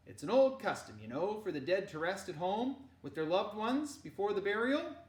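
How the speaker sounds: loud, high hearty uncle. Acted. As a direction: explain it gently but cheerfully. Henrik explains.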